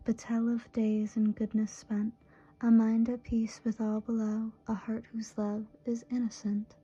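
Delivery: measured, even recital with pauses at line ends; steady poem recitation, lingering on closing phrases; poetry reading. Acted. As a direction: read the verse line by line, unhurried. Reads a love poem aloud.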